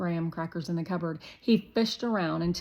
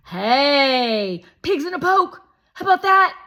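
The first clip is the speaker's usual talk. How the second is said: put-on high, loud pushy boy; Shake voice; 8 semitones higher, 12 dB louder than usual. A narrator's reading. Narrator voicing Shake, a loud, high pushy boy. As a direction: play the bossy guest kid, loud and high.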